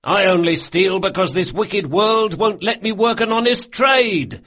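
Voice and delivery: crying out. A narrator's reading. Carlo answering the toast, crying out dramatically. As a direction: cry it out like a hard-done-by hero. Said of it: "Carlo cried".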